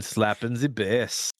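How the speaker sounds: slow, bad mock Jamaican accent; imitated Jamaican accent. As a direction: draw out a hammy Jamaican movie catchphrase. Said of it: "like, a Jamaican accent for an entire scene".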